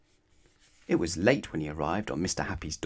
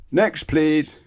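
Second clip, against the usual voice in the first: high, loud brusque call; loud dismissal; 8 semitones higher, 8 dB louder than usual. Acted. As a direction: wave the next customer on loudly. Butcher dismissing.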